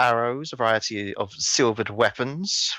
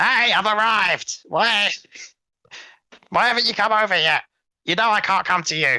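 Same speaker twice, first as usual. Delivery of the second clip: loud, very high, shrill goblin voice; 10 semitones higher, 4 dB louder than usual. Voicing a goblin heard in the background of a conversation: loud goblin voice. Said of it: "this loud goblin noise".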